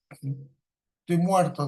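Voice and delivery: slow, drawn-out, exhausted sigh of a phrase; worn out after work. Shown as a demonstration. Teacher showing a tired worker, drawn out and exhausted. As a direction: sag into it like you just finished the workday. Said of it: "ya es cansado de trabajar".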